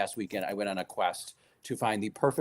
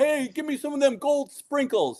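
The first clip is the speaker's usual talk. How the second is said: put-on old-school Brooklyn accent, pitched very high. Retelling her husband's father-in-law decorating cookies with the family, in a brooklyn accent. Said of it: "like in that like Brooklyn accent".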